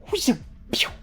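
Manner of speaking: breathy high whizz and pew; bullet sound effect. Retold or imitated. Narrator imitating a sniper round hitting dirt, whispered pew. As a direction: whistle out a passing bullet.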